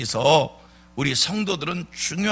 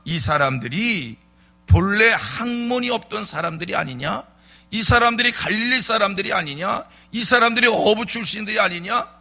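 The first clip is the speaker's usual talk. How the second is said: raised, scornful rhetorical questions; retold contempt; 5 semitones higher, 3 dB louder than usual. Preacher voicing council members about Peter and John, dismissive. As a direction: imitate officials looking down on unschooled men. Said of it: "이렇게 무시하는".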